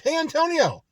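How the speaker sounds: high, loud shouted call of a name; mock yell. Supervisor hollering across the store at a coworker, loud mock yell. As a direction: holler it like a rude boss. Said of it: "instead of saying".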